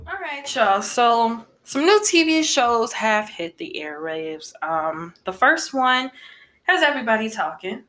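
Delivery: winded from the stairs, talking through it; slightly breathless, catching air between phrases; out of breath. Real, not acted. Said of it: "Let me catch my breath. I just went downstairs".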